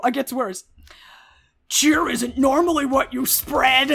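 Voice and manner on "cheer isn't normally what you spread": quipping. Acted. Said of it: "Dwalin quipped".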